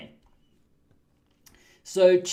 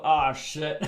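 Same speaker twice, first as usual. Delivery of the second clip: laughing dismay; 2 semitones lower than usual. Retold or imitated. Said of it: "and I thought".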